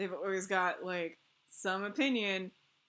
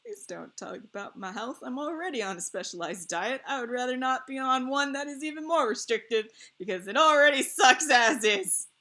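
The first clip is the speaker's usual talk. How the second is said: annoyed; 4 semitones higher, 9 dB louder than usual. Retold or imitated. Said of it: "So I'm like".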